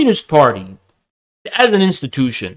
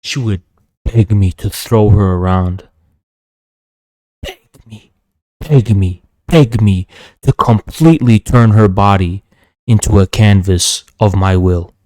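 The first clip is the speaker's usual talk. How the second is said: menacing boast; 5 semitones lower than usual. Real, not acted. Boasting to dominate the troll.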